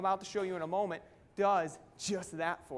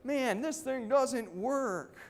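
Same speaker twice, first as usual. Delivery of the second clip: high, slow mock gripe; retold frustration; 6 semitones higher, 3 dB louder, much slower than usual. Speaker quoting his younger self giving up, fed up. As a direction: sound fed up with the business. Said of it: "I'd get so frustrated and say".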